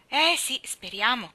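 cheerful agreement. A narrator's reading. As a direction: agree gladly with a lift. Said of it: "questa allegra filosofia".

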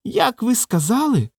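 high, slow, ominous question; menacing voice. A narrator's reading. Vybegallo menacingly asks Roman to repeat, slow and high. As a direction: ask it slowly and threateningly. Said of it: "страшним голосом поцікавився вибігало".

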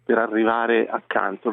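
slightly winded while climbing; breathless, talking mid-climb; out of breath. Real, not acted. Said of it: "Scusate il fiatone". (con il fiatone in salita)

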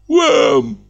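high loud retort; sharp shout. Acted. Lodger shouting back at the neighbours, sharp. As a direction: fire it back. Shouted reply through wall.

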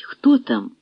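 put-on an old woman startled at the door; alarmed. A narrator's reading. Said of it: "стривожений жіночий голос".

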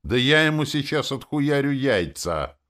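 a dark mage roaring with rage; enraged roar. A narrator's reading. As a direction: bellow it while drawing the sword. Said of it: "взревел маг тьмы и смерти".

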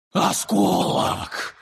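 slow, high, drawn-out wheeze; wheezing creature. Acted. The creature wheezes out the word in shock. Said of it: "прохрипела мгла".

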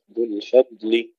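الفضل with a thin fa and lam, heavy dad; light fa and lam. Shown as a demonstration. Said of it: "ترقيق الفاء، ترقيق اللام". (ترقيق الفاء واللام في الفضل)

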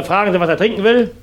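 ordinary talk, nothing marked

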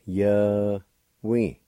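Ye-wi, two quick syllables, falling; Cherokee pronunciation. Shown as a demonstration. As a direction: say Ye-wi as yuh-wee. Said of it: "pronounced like this".

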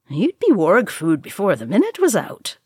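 put-on voice of a jeering dwarf; swooping, teasing dwarf jibe; mocking dwarf heckler. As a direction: heckle your boastful friend across the table. Another dwarf mocks Gimli.

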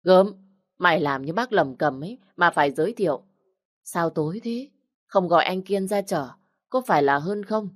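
delighted teasing welcome; old man happily greeting a visitor at the gate; cheerful. Acted. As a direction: brighten up, greet him gladly. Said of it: "hớn hở".

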